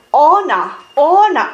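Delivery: "Ona" with the a rounded toward o, American style; mock gringo "Ona"; imitating American accent. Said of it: "Su, su acento americano". (imitando acento americano, "Ona")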